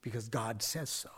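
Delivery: soft whispered assurance. Acted. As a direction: drop to a hushed whisper to settle it. Whispered conclusion.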